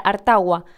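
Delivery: "hartagua" fused into a single word; one word. Shown as a demonstration. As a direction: say "hartagua" with no break. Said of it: "parecía que harta agua era una sola palabra". ("hartagua" pronunciado como una sola palabra)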